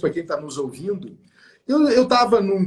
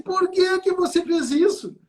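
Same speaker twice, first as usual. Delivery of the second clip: puzzled question; 13 semitones higher than usual. Retold or imitated. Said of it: "eu fui lá e disse assim".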